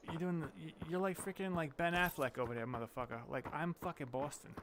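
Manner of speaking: retold put-down in a Boston accent; mock Boston accent, lightly played; Boston friend impression. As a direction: imitate a Boston local scoffing. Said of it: "He's like".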